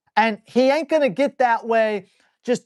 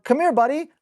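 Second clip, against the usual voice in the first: calling the dog; 5 semitones higher, faster than usual. Shown as a demonstration.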